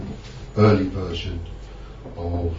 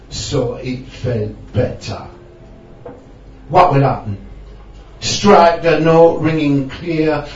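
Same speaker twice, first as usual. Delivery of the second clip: put-on poem in a Jamaican Rasta accent. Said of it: "in a Rasta accent".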